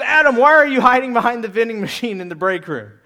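stern manager voice; God demanding answers. Pretend. Boss questioning an employee hiding in the break room, stern. God confronting Adam in modern retelling.

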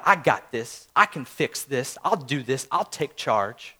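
low, soft, measured resolve; understated, self-contained and low; quiet self-assurance. Acted. Person telling God they'll manage, low and quiet.

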